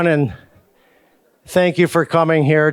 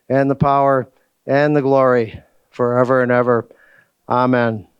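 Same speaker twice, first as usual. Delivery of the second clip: prayer. Acted. Leads the Lord's Prayer.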